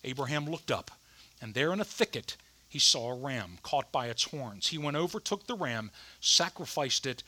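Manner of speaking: measured Bible reading, lightly softened; scripture reading. A narrator's reading. Reads Bible passage aloud.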